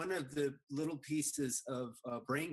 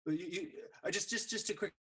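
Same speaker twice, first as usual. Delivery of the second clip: choppy audio dropping out; breaking up over a bad connection; corrupted glitchy audio; 8 semitones higher, faster than usual. Real, not acted. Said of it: "Your audio's cutting out".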